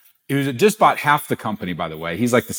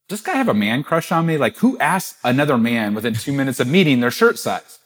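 bewildered; 2 semitones higher than usual. Retold or imitated. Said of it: "he looks at me kind of bewildered".

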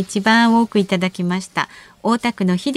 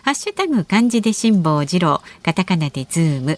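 radio announcement. Acted. Listener message announcement.

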